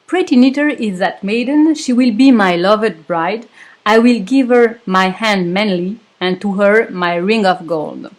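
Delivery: English read with a heavy French accent; reciting the English verse with a thick French accent. Shown as a demonstration. Storyteller reads the English song verse to knitters, French-accented English. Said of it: "j'ai un très, très bel accent français".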